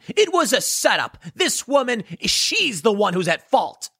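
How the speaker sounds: lightly voiced high mocking politician; a hint of a whiny excuse, slowing at the end; Nancy Pelosi. Mocking the politician blaming the salon owner, lightly voiced and high. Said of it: "What did Nancy Pelosi say".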